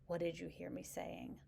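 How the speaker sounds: soft, level question; quietly ask, no edge; gentle, steady delivery; calm and even. Shown as a demonstration. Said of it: "deliver that kind of calmly and evenly".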